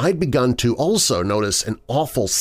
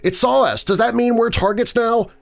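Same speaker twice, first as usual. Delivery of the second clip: freaking out; 11 semitones higher than usual. Retold or imitated. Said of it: "freaking out about what just happened".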